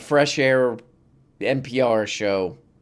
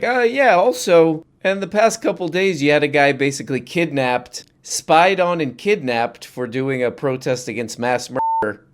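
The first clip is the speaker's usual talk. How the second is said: a lightly voiced reporter starting high; mock reporter; 4 semitones higher than usual. Lightly voiced press reporter slipping in a pointed question. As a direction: sneak the hard question in casually. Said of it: "somebody from the press is like".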